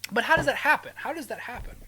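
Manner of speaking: high, loud baffled question; loud disbelief. Real, not acted. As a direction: demand it in disbelief.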